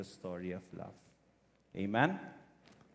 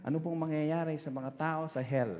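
asking youth; 6 semitones higher, 5 dB louder than usual. Retold or imitated. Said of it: "may nagtanong kay Cardinal".

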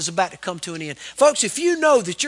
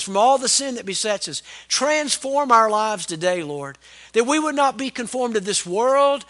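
public prayer. Real, not acted. Pastor praying to the Father for his congregation, earnest prayer. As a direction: pray aloud in measured phrases, easing down to the amen.

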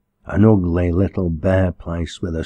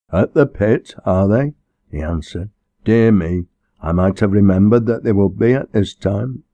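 louder, self-assured parson voice; serene minister; 2 semitones higher, 4 dB louder than usual. Acted. Minister introducing himself to the collier girl, self-assured. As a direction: speak up like a formal visiting clergyman.

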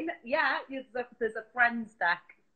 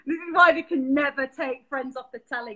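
laughing; 2 semitones higher, 4 dB louder than usual. Real, not acted. Teasing while laughing.

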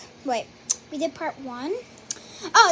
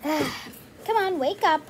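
weary sigh, then a fed-up nudge; tired of asking, say it with a sigh; sighing mom; slower than usual. Pretend. Mom doll asks the child again, weary sigh.

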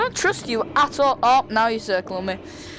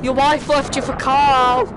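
taunting; 2 semitones higher, 3 dB louder than usual. Real, not acted. Taunting shark.

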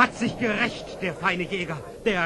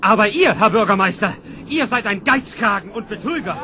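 angry accusation; 6 dB louder than usual. Acted. Townsman accuses the mayor.

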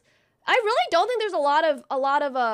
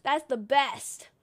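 whispered aside; 2 semitones lower, slower than usual. Retold or imitated. Whispered end of quote.

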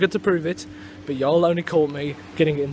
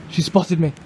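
alarmed hushed narrator; 8 dB louder than usual. Pretend. Narrator spotted by the subject.

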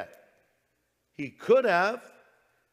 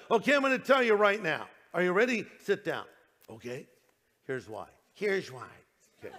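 Bob Coy. Retold or imitated. Preacher imitates the Lord's answer to a questioner, lightly put on. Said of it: "that was a quick Bob Coy imitation".

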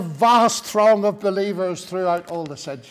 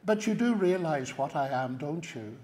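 hushed, confiding undertone sinking softer; conspiratorial whisper; 6 semitones lower, 7 dB quieter than usual. Retold or imitated. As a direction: lower your voice as if sharing a secret. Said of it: "lowered my voice to a conspiratorial whisper".

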